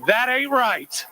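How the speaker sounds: slow, drawn-out Kentucky "That ain't right"; Kentucky accent. Shown as a demonstration. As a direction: let the Kentucky accent stretch slowly. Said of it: "in those amazing Kentucky accents".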